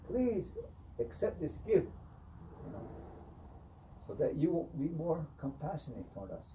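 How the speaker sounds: high, coaxing offer; clown bribing. Retold or imitated. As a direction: sweet-talk the owl in a high voice. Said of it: "He goes".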